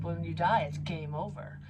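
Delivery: ordinary talk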